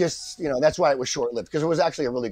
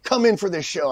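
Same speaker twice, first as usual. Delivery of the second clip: slow, drawn-out, higher plea; retold pleading; 4 semitones higher than usual. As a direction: beg with a stretched-out please. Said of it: "you're begging me to come in".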